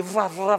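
spelt-out storm crashes; imitated lightning crack. Storm breaks outside during the visit, imitated crashes. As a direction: mimic lightning cracks with the mouth.

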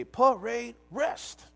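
slow, ringing parade-ground order; drawn-out drill command. Retold or imitated. Recruit retelling the instructor's call to the ranks, slowly drawn out. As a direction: stretch each syllable like a drill instructor calling ranks.

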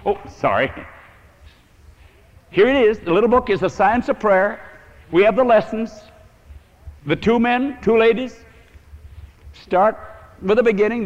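loud, high preaching voice; full-voiced pulpit exhortation. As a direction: drive the plan home to the congregation.

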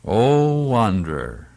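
measured verse appeal, falling at phrase ends; hymn recitation. Acted. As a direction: recite the chorus as a solemn invitation.

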